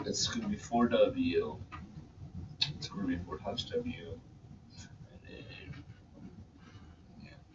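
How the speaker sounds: very quiet talk that barely carries. Explaining a math step to the class, talking very quietly. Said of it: "He was talking very quiet".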